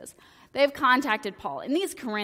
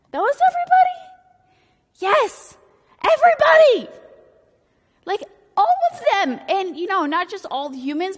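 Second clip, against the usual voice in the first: God's voice; 7 semitones higher, 8 dB louder than usual. Retold or imitated. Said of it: "And God's like".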